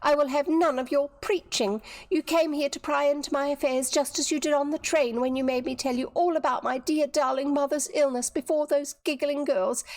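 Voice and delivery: high, indignant tirade; angry. A narrator's reading. Viola accusing Dorothy of prying, angry. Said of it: "the girl's eyes flashed in anger".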